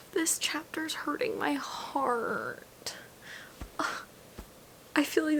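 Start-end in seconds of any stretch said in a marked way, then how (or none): 0.1-3.0 slow pained whisper; soft hurt whisper; aching whisper. Real, not acted. Whispering, emotional.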